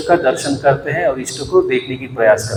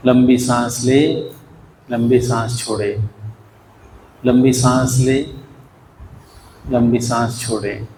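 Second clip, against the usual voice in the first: slow, measured breathing cues with long pauses; unhurried meditation instruction; guided breathing. Real, not acted. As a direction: lead them evenly through each breath, leaving room to breathe. Leads breathing before meditation.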